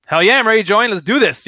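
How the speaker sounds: hammed-up enthusiastic agreement; eager prospect. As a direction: jump at the offer with gusto. Acting out an eager positive prospect.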